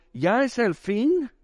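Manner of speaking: high, slow rising wail; drawn-out high question, acted; demon's question. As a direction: imitate a demon asking in dread. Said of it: "Siempre están diciendo".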